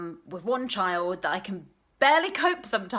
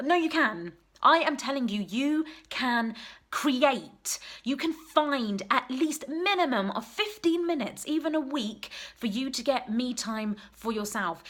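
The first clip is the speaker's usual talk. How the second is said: insistent; 3 semitones higher than usual. Real, not acted. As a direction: tell them they can. Urging mums firmly.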